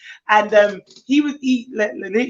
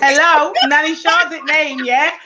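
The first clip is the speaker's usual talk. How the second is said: cocky boast; 4 semitones higher, 5 dB louder than usual. Retold or imitated. Boasting to the mum.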